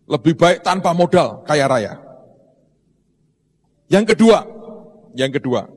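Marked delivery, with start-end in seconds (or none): 3.9-4.4 emphatic announcement. Real, not acted. Preacher announcing the second point. 5.1-5.7 "yang kedua" said lower and softer; soft repeat. Real, not acted. Preacher repeating the second point, soft and lower.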